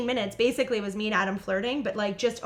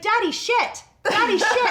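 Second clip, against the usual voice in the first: put-on high baby-talk voice, growing louder; imitated toddler; 11 semitones higher, 6 dB louder, slower than usual. Toddler daughter naming who swears, imitated high little voice. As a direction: chant it proudly like a tiny child.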